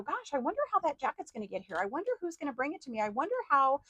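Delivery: mock worrier fussing over delivery; fretful wondering. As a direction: rattle off the worries quickly. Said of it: "You don't sit there and go".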